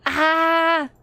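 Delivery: high-pitched yelp; startled cry. Real, not acted. Player jumping at a scary game scene, startled cry. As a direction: let out a startled "ah".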